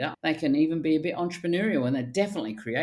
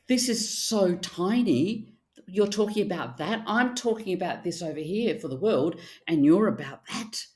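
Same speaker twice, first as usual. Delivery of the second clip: voicing a grandiose masculine; 4 semitones higher than usual. Masculine voiced in argument.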